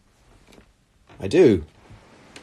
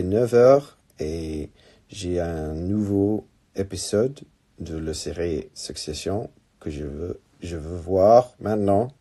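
English-accented French. Real, not acted. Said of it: "in this horrific French accent".

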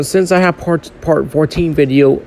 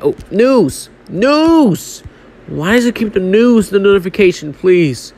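high startled yelp; 4 semitones higher than usual. Real, not acted. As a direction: caught off guard by a popup. Notification pops up mid-game.

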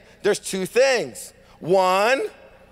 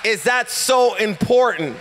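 preaching at full force; 2 semitones higher than usual. Acted. Pastor rallying the congregation, full preaching force. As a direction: drive the point home to the church.

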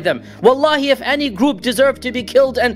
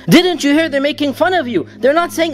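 higher, pleading protest; indignant Aisha; 5 semitones higher than usual. Retold or imitated. Aisha protesting to the Prophet, indignant and higher. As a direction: raise the pitch in upset protest. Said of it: "And Aisha said".

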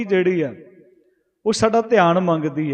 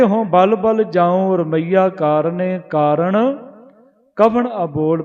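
slow scripture recitation; 3 dB louder, slower than usual. Acted. Preacher reciting gurbani verse to the congregation, slow and reverent. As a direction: chant the verse slowly, each phrase drawn out.

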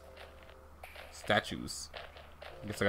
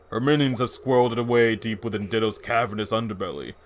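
serious voice; 3 semitones lower, 3 dB quieter than usual. Acted. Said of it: "like, a serious".

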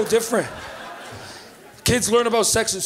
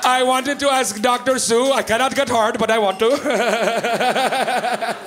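mock caller ending in a drawn-out wobble; imagined caller; slower than usual. Caller confides in the TV doctor, comically quavering. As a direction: stretch the last word into a silly quaver.

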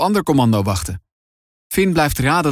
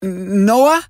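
high, tentative and trembling; 7 semitones higher than usual. A narrator's reading. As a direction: barely dare to speak, afraid of the answer. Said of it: "met een trillende stem". (Finn tegen zijn bewusteloze broer, met trillende stem)

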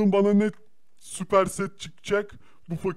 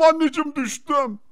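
mock wail; 6 semitones higher, 5 dB louder than usual. Character falls into pit.

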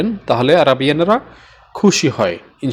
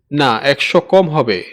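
slow teaching; slower than usual. Shown as a demonstration. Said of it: "লা".

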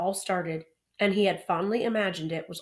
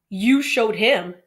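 trembling voice; 3 semitones higher, 9 dB louder, slower than usual. A narrator's reading. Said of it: "in a trembling voice".

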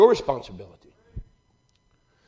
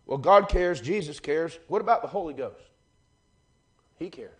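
hushed preaching; 12 dB quieter than usual. Acted. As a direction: drop to a near hush, as if confiding. Quiet intimate stretch of sermon.

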